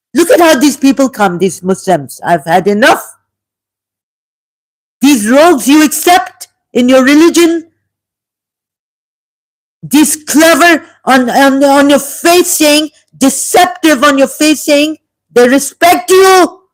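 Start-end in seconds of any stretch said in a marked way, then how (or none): 2.2-16.5 shouting, voice raised, high and rising. Criticizing people during a religious talk, shouting. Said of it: "Sorry, I have to shout".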